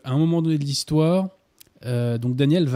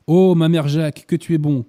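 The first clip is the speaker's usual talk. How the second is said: overjoyed cry; 3 semitones higher, 7 dB louder than usual. A narrator's reading. Boy's outburst read from novel.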